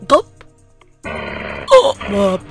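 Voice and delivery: sudden loud swallowing noise; loud gulp. Acted. Wolf gulping down the grandmother, loud swallowing sound. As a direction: voice a big cartoon gulp.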